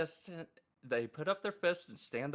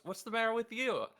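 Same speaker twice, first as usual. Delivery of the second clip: Cherry yelling; 8 semitones higher, 4 dB louder than usual. Retold or imitated. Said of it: "She goes".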